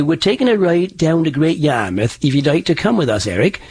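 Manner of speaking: East Anglian settler accent, lilting; old East Anglian accent. Shown as a demonstration. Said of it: "they sounded like this. They'd say".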